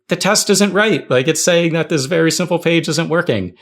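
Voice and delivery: rally coworkers against the broken test; telling the office the test is wrong, pitch up high; worked-up complaint. Retold or imitated.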